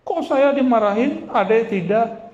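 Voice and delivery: high-pitched mock complaint of a sibling; jealous child. Scolded older brother envies younger sibling, jealous protest.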